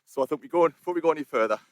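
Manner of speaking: put-on Yorkshire accent from a southerner. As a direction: have a go at a broad Yorkshire accent. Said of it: "probably well and truly butchering the accent".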